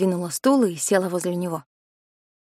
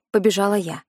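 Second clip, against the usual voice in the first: ordinary delivery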